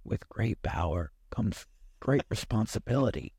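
put-on creaky elderly delivery, laughing through it; old person voice. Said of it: "should I do it in my old person voice".

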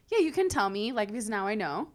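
restrained version of the demand; toned-down retelling. Retold or imitated. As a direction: ask him to tell, without the sass. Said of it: "That's not really what I said. I was like".

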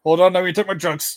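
quick mock villain voice. Parodying the character.

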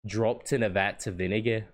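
lightly put-on Scottish-style accent; NPC lady's accent. Shown as a demonstration. Modelling market lady's line for friend, light Scottish-style accent. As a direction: demonstrate a villager's maybe-Scottish accent. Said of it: "Can you hit that accent".

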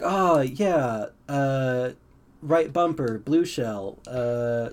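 absently echoing stray phrases, with gaps; feigned active listening. Acted. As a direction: parrot the jargon back as if following. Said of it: "occasionally, like, repeating a phrase".

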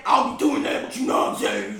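rough, loud teasing impression of a friend; loud put-on man's voice. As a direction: imitate the friend's changed voice, hammed up. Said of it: "your voice is so much deeper".

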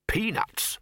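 high, prompt one-word answer. A narrator's reading. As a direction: answer straight away, without thinking. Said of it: "said the bursar promptly".

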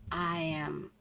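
ordinary talk, nothing marked

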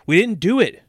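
put-on high, loud boy's protest; child yelling. A narrator's reading. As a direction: yell it out like an accused kid. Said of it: "Danny yelled".

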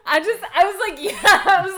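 talking through real laughter; laughing. Real, not acted. Podcaster laughing while recalling the scene. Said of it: "laughing at the screen".

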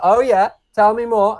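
hammed-up delight at the pitch; eager mock excitement. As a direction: play Michael Caine's hooked, eager reply. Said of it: "And he's like".

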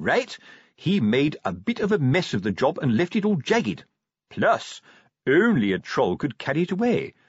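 lightly voiced sergeant explaining his theory; self-important sergeant.

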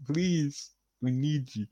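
flat toy robot voice. Acted. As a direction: speak like a small robot. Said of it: "Just a little robot voice".

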